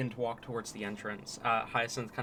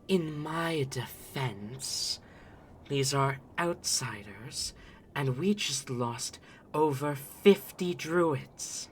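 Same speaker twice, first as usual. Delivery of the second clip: slow, measured self-defense; slow, deliberate character voice; lightly voiced Tabaxi; 3 semitones higher, slower than usual. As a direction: spell it out slowly in defense.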